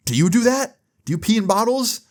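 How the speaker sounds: high-pitched suspicious questions; imitated questioning mom. Mom asking her son if he does it too, imitated high voice. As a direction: put on a high, probing mother voice.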